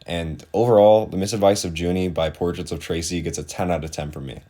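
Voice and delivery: flat robot-like review voice; robotic monotone. Real, not acted. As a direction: read it evenly, like a robot. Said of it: "I talk kinda like a robot in this".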